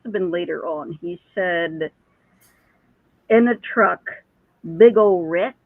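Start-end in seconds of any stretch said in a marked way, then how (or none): 3.3-5.6 put-on Kentucky accent. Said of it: "That's an accent".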